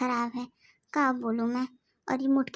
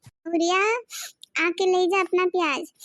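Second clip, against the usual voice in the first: calling out; 3 semitones higher, 4 dB louder than usual. Acted. Calling out to old woman.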